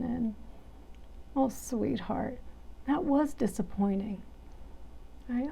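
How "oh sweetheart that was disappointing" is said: gentle, caring inner voice; soothing self-talk. Shown as a demonstration. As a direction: comfort yourself like a dear friend. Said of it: "talk to ourselves in such a kind and caring and soothing way".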